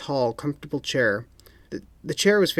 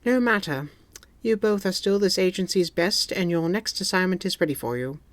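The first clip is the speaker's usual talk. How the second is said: stern boss; 7 semitones higher than usual. A narrator's reading. M speaks.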